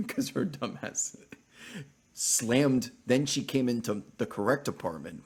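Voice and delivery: can't stop laughing at the memory; laughing while telling. Real, not acted. Streamer laughing at girlfriend's blunder, cracking up. Retelling noisy door slam story.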